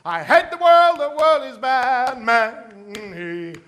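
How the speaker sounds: loud moaning lament, slowing at the end. Acted. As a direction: groan out the complaint, dragging the last lines. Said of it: "he would say the same thing".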